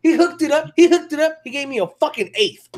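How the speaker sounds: high, loud, fast excitement; excited. Real, not acted. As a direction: burst out with the news. Excited about eighth gift.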